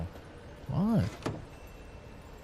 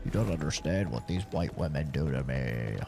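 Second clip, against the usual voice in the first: dog's pleading voice; slower than usual. Retold or imitated. The dog begging his owner not to leave, slow pleading voice. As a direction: plead dramatically like an abandoned pet. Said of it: "It's like".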